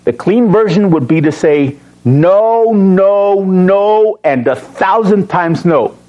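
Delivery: repeated no, building to a thousand times; emphatic no. Shown as a demonstration. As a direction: say no, no, no, then lean on thousand. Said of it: "That is the strongest way to say no".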